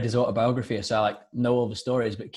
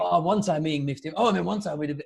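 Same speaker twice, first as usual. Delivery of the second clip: higher, lightly acted bar-room rambler; old drunk storyteller; 5 semitones higher than usual. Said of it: "old drunk guy in a bar telling stories".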